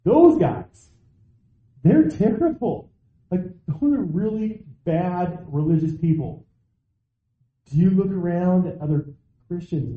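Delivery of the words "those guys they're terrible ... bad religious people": mock worked-up. Imitating Christians worked up judging others. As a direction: ham up a self-righteous accuser. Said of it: "getting worked up and saying".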